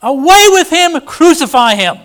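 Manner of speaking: high, loud mob yell; loud high crowd cry "Away with him!"; crowd shouting. Acted. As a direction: bellow it like an angry crowd. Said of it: "the people shouted".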